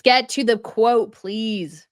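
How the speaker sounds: loud, drawn-out demand, then dropping; impatient plea. Real, not acted. Host to the interview clip she can't stand, impatient. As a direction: plead impatiently for it to get on with it.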